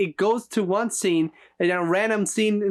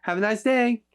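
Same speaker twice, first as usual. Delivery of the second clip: bright, higher clerk patter; imitating a store clerk; 4 semitones higher than usual. Parodying how a store clerk greets you, bright and cheery. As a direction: breeze through it like a cheery cashier. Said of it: "it's basically just like".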